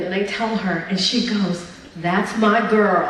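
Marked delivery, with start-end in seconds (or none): 2.0-3.1 proud mom shout. Retold or imitated. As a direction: call it out like a proud Haitian mom. Proud mom reacting in retold story.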